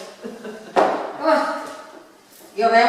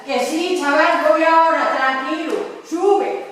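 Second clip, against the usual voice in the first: higher, raised call to a friend ahead; 4 semitones higher, slower than usual. Acted. Straggler telling his mate to climb on, calling out reassuringly. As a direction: call uphill to wave them on.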